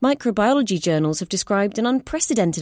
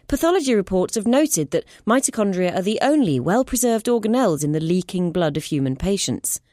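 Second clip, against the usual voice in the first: higher, brisk, firm explaining; sharp scientist; 3 semitones higher than usual. Acted. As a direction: snap back to take control. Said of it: "Clara snapped".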